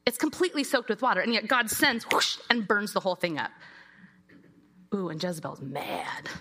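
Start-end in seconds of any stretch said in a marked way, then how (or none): 4.9-6.3 hushed whispered aside; conspiratorial story whisper. Acted. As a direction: lean in and whisper the drama.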